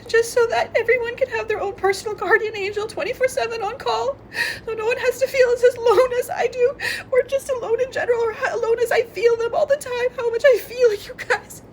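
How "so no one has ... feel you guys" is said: crying. Real, not acted. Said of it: "laugh cry".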